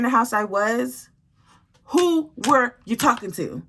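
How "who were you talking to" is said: heated demand. Retold or imitated. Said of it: "So I'm going off on her".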